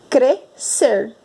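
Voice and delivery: "crescer" slowly in syllables, kre-SER; silent S. Shown as a demonstration. Teacher shows what we really say, silent S. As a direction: say "crescer" split, one single s sound. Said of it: "Nós não ouvimos o som do S".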